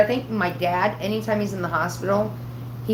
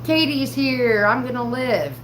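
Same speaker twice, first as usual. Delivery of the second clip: raised, drawn-out happy announcement; imitated delighted dad; 6 semitones higher, 3 dB louder, slower than usual. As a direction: announce it as dad with a big smile. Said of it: "he smiled real big".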